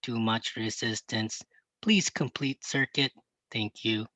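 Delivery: pinched-nose robot voice, nasal and mechanical. Pretend. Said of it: "I pinched my nose to do my robot voice".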